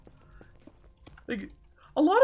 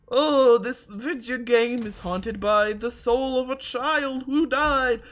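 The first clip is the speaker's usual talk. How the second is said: mock spooky storyteller; 3 semitones higher, 4 dB louder, slower than usual. Mock spooky game premise.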